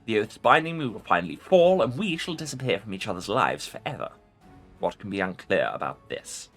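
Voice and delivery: impatient ancient lich; ancient rasping undead king. Acted. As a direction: brush off the question as the lich. Lich voice continues.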